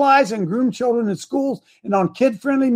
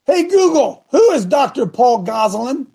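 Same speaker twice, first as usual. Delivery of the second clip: repeating to voice assistant; 3 semitones higher than usual. Real, not acted. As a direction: say it clearly for the phone. Asking the phone assistant again.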